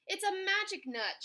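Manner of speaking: high cry of wonder; excited shout. A narrator's reading. Rabbit seeing the nut vanish underground, excited shout. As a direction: call out the amazing discovery. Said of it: "shouted Littlest Rabbit".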